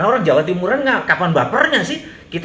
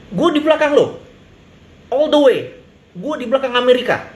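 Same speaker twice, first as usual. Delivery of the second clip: ingratiating promise; 6 semitones higher than usual. Retold or imitated. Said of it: "Sehingga mereka bilang".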